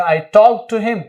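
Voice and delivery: slow, careful English sentence; slow dictation. Shown as a demonstration. Teacher modelling the English translation, slowly. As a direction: read it out like dictation. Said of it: "तो क्या बोलेंगे?".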